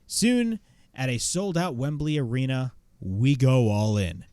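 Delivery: lightly imitated wrestler promo, slow at the start; Samoa Joe. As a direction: deliver a measured, declarative mock wrestling promo. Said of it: "the promo that he cut".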